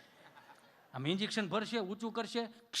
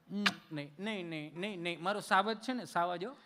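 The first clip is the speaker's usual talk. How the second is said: mock soothing mother; 2 semitones lower, 5 dB quieter than usual.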